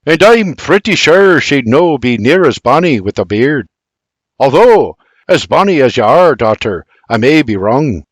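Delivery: playful father ribbing his family; teasing wink. Acted. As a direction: tease your wife and daughter with a wink. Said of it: "Bibi says with a wink".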